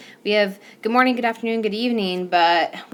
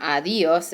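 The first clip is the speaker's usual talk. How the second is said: ADIOS stressed in the middle, ah-DEE-os; wrong-syllable stress. Shown as a demonstration. Teacher showing another mistake, "adios" stressed on DI. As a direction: lean on the "di" of "adios". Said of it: "puts emphasis on the syllable".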